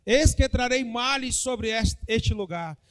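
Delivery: slow, solemn prophetess declaring; prophetic proclamation. Acted. (proclamação lenta e solene)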